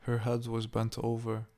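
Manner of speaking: ordinary delivery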